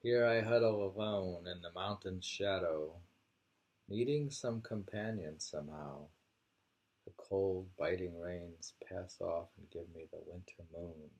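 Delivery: measured poem reading, firm start. Acted. Reading the mountain-shadow poem aloud, measured. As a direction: read the verse with care.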